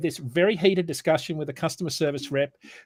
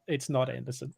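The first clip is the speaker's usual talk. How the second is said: laughing; 3 semitones lower, 9 dB quieter than usual. Real, not acted.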